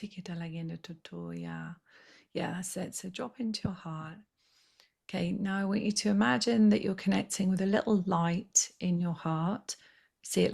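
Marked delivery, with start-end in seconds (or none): 0.0-4.2 hushed, breathy coaxing; soft meditation whisper; soft guiding whisper. Acted. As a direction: whisper them gently into the heart.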